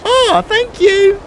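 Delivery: very high, drawn-out squeaky gushing; gushing thanks. Pretend. Gamer thanking the man offering shelter, high gushing coo.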